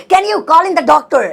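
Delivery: slow dictation pace, each word apart; slow teaching repeat. Shown as a demonstration. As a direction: spell it out slowly for the class. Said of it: "slow repeat for learners".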